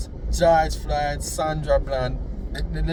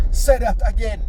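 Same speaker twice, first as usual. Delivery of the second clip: menacing police officer; 7 semitones higher, 4 dB louder than usual. Retold or imitated. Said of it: "And the man said to her".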